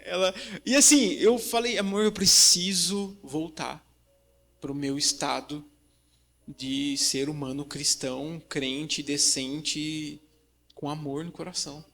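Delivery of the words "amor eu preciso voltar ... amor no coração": slow, quieter earnest confession; slow soft confession to his wife; slow soft plea. Retold or imitated. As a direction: say it gently and slowly to your wife. Telling his wife he needs calm.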